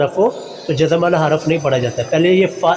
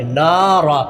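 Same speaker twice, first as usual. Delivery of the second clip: नारा with a long naa; lengthened noon; 2 semitones lower, much slower than usual. Shown as a demonstration. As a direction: recite नारा, holding the first vowel. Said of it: "नून को लंबा करेंगे". (नारा का 'ना' लंबा)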